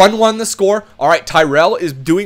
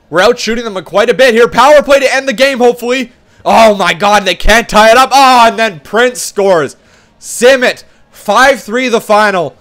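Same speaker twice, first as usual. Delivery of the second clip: louder, rising play-by-play; excited call; 3 semitones higher, 4 dB louder than usual. Real, not acted. Gamer calling a tense late power play excitedly.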